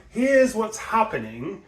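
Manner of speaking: high, slow attention-grabbing lift. Shown as a demonstration. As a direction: raise the pitch to grab attention. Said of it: "in that high tone".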